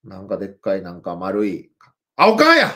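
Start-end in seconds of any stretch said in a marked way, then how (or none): 2.1-2.7 high playful surprise; mock surprise. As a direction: act like you just found her. Surprise discovering mom on stream.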